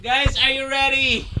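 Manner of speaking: soft, held-back question; hushed build-up. Real, not acted. Streamer priming viewers before reveal, hushed. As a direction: ask it quietly, holding back.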